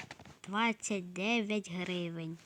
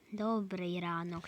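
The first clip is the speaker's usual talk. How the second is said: whispered. Pretend. Shopper greets the cashier again, whispered. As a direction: breathe "добрий ранок" with no voice.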